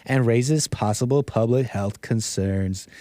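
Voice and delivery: laid-back lightly psychedelic reading voice; stoner voice. Pretend. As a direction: read it like a mellow stoner. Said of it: "Is that a stoner voice?".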